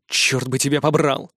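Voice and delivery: the narrator grumbles a curse at his partner; grumbled curse. A narrator's reading. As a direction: grumble it under your breath. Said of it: "проворчал я".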